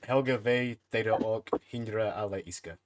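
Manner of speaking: slow, measured prayer chant; prayer recital. Shown as a demonstration. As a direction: recite the short prayer slowly. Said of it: "Say it".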